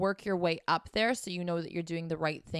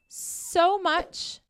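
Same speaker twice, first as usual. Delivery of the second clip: high, slow and stretched; pleading high drawn-out thanks; 11 semitones higher, 4 dB louder than usual. Real, not acted. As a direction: draw it out sweetly. Sign-off pleading.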